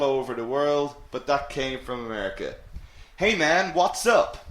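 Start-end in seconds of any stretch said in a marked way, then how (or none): 3.2-4.5 lightly put-on American accent; slightly amateurish American accent. Shown as a demonstration. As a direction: attempt a casual American greeting. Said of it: "That was my American accent".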